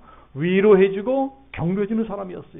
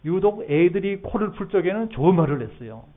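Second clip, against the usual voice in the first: usual speaking voice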